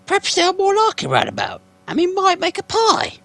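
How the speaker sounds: very high, loud sly troll voice; troll Bert. Acted. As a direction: croon the idea like a greedy troll.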